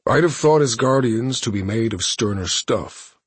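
measured imperious villain; cold villain voice. Acted. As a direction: speak down to a captive. Thanos sneers.

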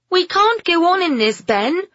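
high, urgent shout; shouting over rain. A narrator's reading. Woman shouts to her companion over drumming rain, high and loud. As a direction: call out loudly above a downpour. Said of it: "Pamela shouted over the drumming of the rain".

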